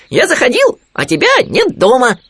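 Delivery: very high, loud little animal voice; Khryunya. A narrator's reading. Khryunya visiting his friend Winnie, high piping voice. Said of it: "сказал Хрюня".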